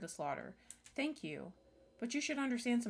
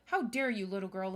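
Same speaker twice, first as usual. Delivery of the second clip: indignant snap; 5 dB louder than usual. Acted. Cece defending Alex from the girl, loud and indignant. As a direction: bite back at her.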